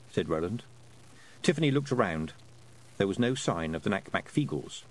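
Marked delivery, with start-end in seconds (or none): none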